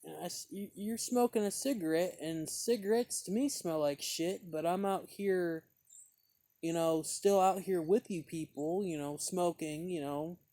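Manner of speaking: retelling his heated reply to the woman; indignant retort. Retold or imitated. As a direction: snap back with indignation. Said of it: "I said".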